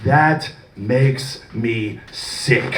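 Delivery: disgusted. Pretend. Promo disgust line.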